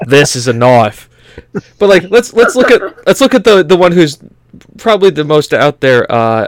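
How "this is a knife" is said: Crocodile Dundee quote. Retold or imitated. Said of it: "Paul Hogan".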